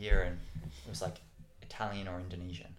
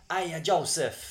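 calling out; 7 semitones higher, 7 dB louder, slower than usual. Retold or imitated. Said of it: "she'd always be like".

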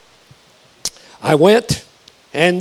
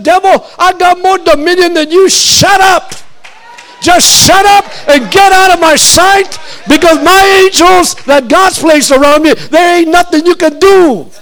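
rebuking the devil; 4 semitones higher than usual. Retold or imitated. Preacher shouting down the devil. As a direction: order the devil out.

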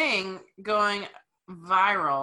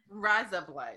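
fake Australian accent trick; 3 semitones lower, 5 dB quieter, slower than usual. Shown as a demonstration. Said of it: "sound like you're saying razor blades with an Australian accent".

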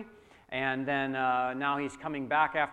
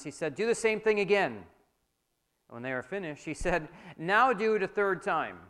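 emphatic, projected Bible story narration; dramatic scripture reading; 4 semitones higher, 5 dB louder than usual. A narrator's reading. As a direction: read it out to a congregation with raised pitch on the quotes.

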